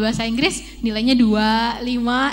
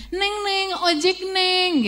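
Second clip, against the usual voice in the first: ojek driver calling; 8 semitones higher, slower than usual. Retold or imitated. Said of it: "kalau K P pulang tuh sering".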